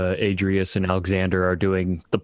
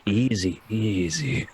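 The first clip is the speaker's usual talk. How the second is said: calming; slower than usual. Acted. Steadying Alexander's shaking hands, calming. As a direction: settle a shaky comrade down. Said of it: "waves him to calm down".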